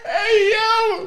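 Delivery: high shout through laughter; laughing shout. Real, not acted. Fan losing it over the scene, high laughing shout. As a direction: yell out while cracking up.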